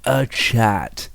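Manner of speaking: bratty sulky greeting; petulant. Pretend. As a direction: say it like a petulant brat. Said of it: "Didn't that sound petulant?".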